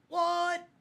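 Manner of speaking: high squeaky what; surprised squeal. Pretend. Mock surprised outburst.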